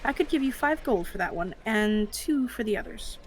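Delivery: lightly voiced, considering stallholder; appraising shopkeeper. Gnome stallholder prices the pelts, appraising. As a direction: start with a long, drawn-out hmm, then make the offer.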